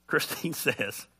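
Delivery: said through a slow laugh. Real, not acted. Pastor starting to quote his wife, slow laughing. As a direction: break into a laugh mid-phrase.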